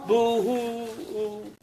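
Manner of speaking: soft comic boo-hoo sob; a light imitated cry; mock wailing. Rabbi illustrating wailing for the class, mock sob.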